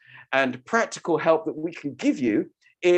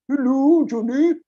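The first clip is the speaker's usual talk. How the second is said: hesitant, higher hello; unsure, testing the greeting; uncertain; 9 semitones higher, 5 dB louder than usual. Shown as a demonstration. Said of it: "sounds a little bit uncertain".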